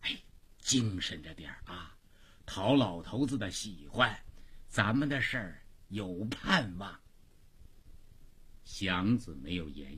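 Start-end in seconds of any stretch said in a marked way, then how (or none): 0.0-7.0 softly, as a private aside; low-voiced confiding. Huniu counts money for Xiangzi, confiding in a low voice. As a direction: lower your voice and coach him discreetly. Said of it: "一边低声地说".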